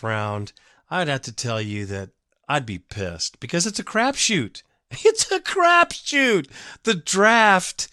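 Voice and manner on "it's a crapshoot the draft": drawn-out, very high squeal of exasperation; incredulous high-voiced outburst; high-pitched exclamation. Real, not acted. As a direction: repeat it way up high, stretching the words. Exclaimed repeat of his point.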